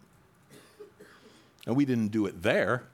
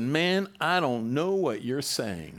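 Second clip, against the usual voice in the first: raised, slowed protest; insistent denial; 4 semitones higher, slower than usual. Acted. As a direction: push the denial harder each time. Peter's third denial.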